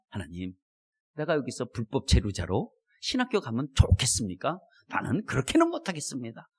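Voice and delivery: low, softened bargaining prayer; acted reluctant plea, kept low; subdued pleading. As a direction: quietly make excuses to God. Acts his bargaining prayer to God.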